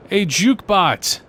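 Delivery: slow amazed exclamation; excited. Acted. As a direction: marvel at it, drawn out. Amazed at the bot.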